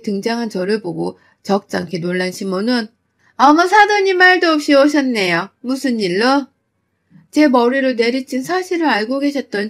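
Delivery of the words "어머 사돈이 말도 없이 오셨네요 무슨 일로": fake surprise. Mother-in-law feigning surprise.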